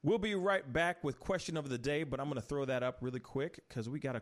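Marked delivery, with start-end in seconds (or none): 0.0-2.0 upbeat host voice announcing a break; show host announcement. Acted. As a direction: pitch it up like a radio host.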